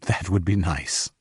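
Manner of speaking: slow, gently pleased, with a smile; smiling. A narrator's reading. Ben accepts Diana's offer, smiling. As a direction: let a soft smile into the slow words.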